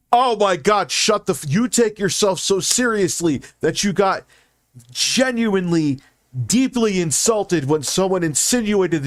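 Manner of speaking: high-pitched, incredulous tirade; real exasperated outburst; exasperated rant. Real, not acted.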